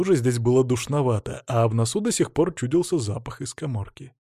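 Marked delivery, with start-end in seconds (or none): none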